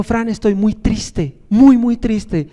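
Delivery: slow, drawn-out mock sadness; mock tearful. Preacher retelling his boss in the dream, slow and mock tearful. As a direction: stretch it out like a sad mock lament. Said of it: "vino la jefe de recursos humanos llorando".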